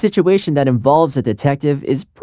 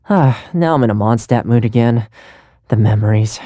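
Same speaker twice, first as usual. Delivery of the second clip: wistful; 5 semitones lower than usual. Acted. Homesick recalling Mondstadt.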